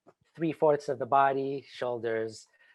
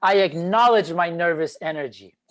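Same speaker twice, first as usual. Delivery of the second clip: affirmation aloud; 2 semitones higher, 6 dB louder than usual. Shown as a demonstration. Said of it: "Say it with me".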